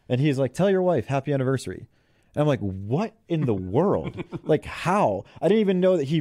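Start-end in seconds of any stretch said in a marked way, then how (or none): 0.5-1.9 higher, friendly imitation of the coach; imitating coach. Coach telling assistant to greet his wife, light imitation. Coach's line voiced in story. 2.6-4.2 slow, drawn-out disbelief; mock disbelief. Assistant stunned the coach knew his anniversary, slow mock disbelief.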